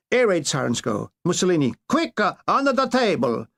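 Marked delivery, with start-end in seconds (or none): 1.9-3.5 mock panic. Mussolini panics at sirens.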